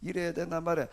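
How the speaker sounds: low, sighing acted lament. Preacher voicing Jeremiah's lament over his life, low sigh. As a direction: mildly groan it out, pitched low. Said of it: "예레미야도 똑같이 탄식을 했어요".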